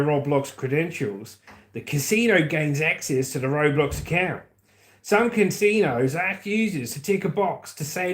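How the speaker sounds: lightly put-on Australian reading voice; mock Australian accent. Shown as a demonstration. Streamer reading a paragraph for mate in Australia, mock Australian accent. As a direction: read it like an Aussie mate. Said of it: "I'm gonna read the next paragraph from Pete in Australia".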